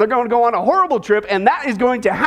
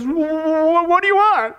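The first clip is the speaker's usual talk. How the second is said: stammering, higher-pitched mock fright; scared stiff; 4 semitones higher, slower than usual. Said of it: "he's scared out of his wits".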